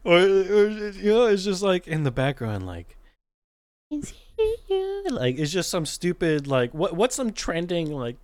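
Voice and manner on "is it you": very high, slow and faint; silly ghost voice. Acted. Ghost calling in the background, silly high ghost voice. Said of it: "say some random stupid shit as a ghost".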